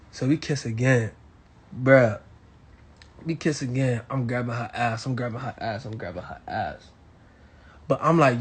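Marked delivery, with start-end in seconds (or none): 4.1-6.9 fading to a murmur. Acted. Repeated phrase fading away.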